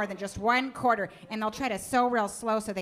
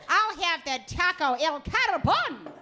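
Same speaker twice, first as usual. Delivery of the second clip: put-on mom's overdone Spanish accent, higher and slow; mock Spanish accent; 7 semitones higher, slower than usual. Mother ordering from the waiter in a hammed-up Spanish accent. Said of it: "order in a Spanish accent".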